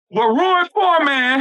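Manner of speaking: slow, drawn-out What ruined poor man; slow emphatic repeat. Shown as a demonstration. Comic repeating his punchline for the crowd, slow. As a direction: lean on poor and stretch it out. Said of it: "I'ma say it again".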